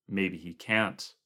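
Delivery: slow, grim grunt. Acted. Barkley grunting a grim answer about God. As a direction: mutter it darkly. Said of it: "Barkley grunted".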